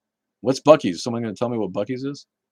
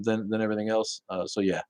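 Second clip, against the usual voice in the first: normal talking voice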